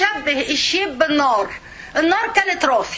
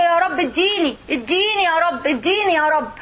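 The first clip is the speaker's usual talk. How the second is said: begging plea. Shown as a demonstration. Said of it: "فأنا بوري له، بقول له".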